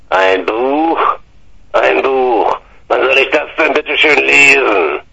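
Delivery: put-on a grumpy old man's indignant whine; mock outrage at a book; indignant uncle. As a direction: pitch up, scoff at the gift. Uncle complaining about the book.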